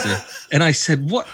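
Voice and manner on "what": high, bewildered what are you talking about; baffled. Retold or imitated. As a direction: sound completely thrown, pitched up high. Baffled husband woken at night.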